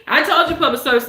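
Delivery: playful repeat. Real, not acted. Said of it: "I have to say it like that".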